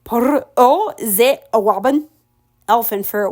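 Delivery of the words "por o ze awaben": "Por o ze awaben" said slowly in a foreign-sounding tongue; Abdigi words. Acted. Ella saying farewell to the birds in Abdigi. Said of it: "Abdigi for".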